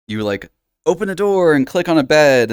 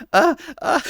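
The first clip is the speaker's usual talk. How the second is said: falsetto warm-up. Shown as a demonstration. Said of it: "talking in a little falsetto".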